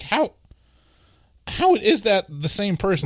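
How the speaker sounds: like doubting your own sanity; retold bewilderment. Retelling the actress mix-up, bewildered. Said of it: "felt like I was taking crazy pills".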